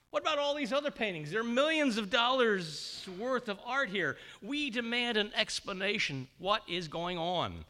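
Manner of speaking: high, loud indignant demands; angry protest. Retold or imitated. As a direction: demand answers, outraged. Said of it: "Someone spoke up in anger".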